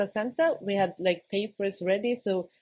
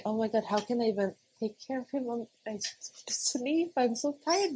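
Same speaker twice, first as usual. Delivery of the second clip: exhausted inner thought; 3 semitones higher than usual. Retold or imitated. Exhausted thought after birth.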